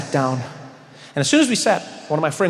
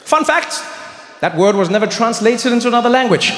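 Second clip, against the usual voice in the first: mock trivia aside; 7 semitones higher, 4 dB louder than usual.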